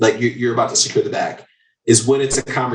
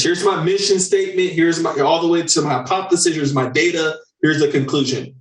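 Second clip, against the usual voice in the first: lightly voiced eager pitch, pitched higher; overpitching salesperson; 5 semitones higher than usual. Mocking a salesperson who pitches the whole project, lightly voiced. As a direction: rattle through the pitch like a salesperson dumping everything.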